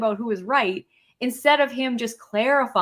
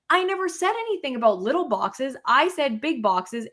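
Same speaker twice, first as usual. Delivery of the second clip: retold angry protest; 4 semitones higher than usual. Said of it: "like, super pissed".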